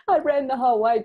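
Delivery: high, loud retold elation; jumping, crying elation. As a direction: blurt it high and loud, overjoyed. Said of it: "jumping up and down, crying".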